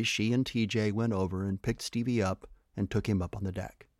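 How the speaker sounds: ordinary delivery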